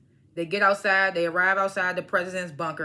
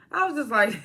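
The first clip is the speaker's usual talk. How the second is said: laughing; 3 semitones higher than usual. Real, not acted.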